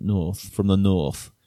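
a touch of northern English accent; northern English accent demo. Shown as a demonstration. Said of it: "I haven't done a northern accent".

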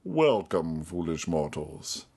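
slow, low, hushed ghost host; slow theatrical villain menace. Retold or imitated. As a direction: menace them slowly from the dark. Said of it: "YouTube clips about the Haunted Mansion".

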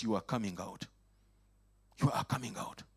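ordinary talk

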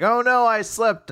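high, loud, drawn-out lament; hammed-up cry of dismay; mock dismay. Retold girl's dismay at slipping.

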